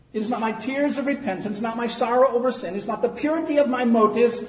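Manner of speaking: loud, high-pitched pulpit delivery; full-force preaching. Real, not acted. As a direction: preach it out to the whole church. Preaches from a read text.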